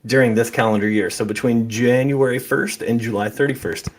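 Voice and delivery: breathless from rushing; winded, catching breath. Real, not acted. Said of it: "I'm out of breath".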